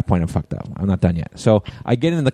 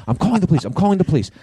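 high-pitched imitation of an irate woman; mock angry yelling; 9 semitones higher, much faster than usual. Angry driver threatening the man who hit her, mock yell. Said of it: "yelling at me".

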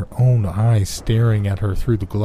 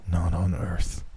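slowly; 2 semitones lower, 5 dB quieter, slower than usual. A narrator's reading. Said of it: "he answered slowly".

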